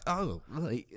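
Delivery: softly mimicked disgust; grossed out. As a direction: act put off, under your breath. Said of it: "grossed out by it".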